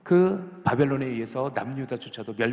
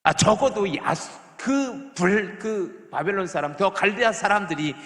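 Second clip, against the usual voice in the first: higher, louder indignant complaint to God; Habakkuk's protest; 4 semitones higher, 5 dB louder than usual. Retold or imitated. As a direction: cry out against God like the angry prophet. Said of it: "하박국은 또 이렇게 질문하는 거예요". (하나님께 분노하며 따지는 하박국)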